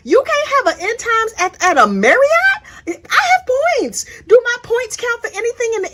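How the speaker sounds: high, laughing through the words; amused disbelief with laughter. Real, not acted. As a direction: crack up while asking. Mocking End Times camping.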